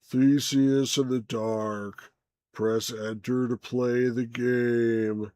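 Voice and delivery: lightly imitated slow, drawn-out drone; Ben Stein. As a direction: stretch each word in a mild impression. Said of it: "Ben Stein would be like".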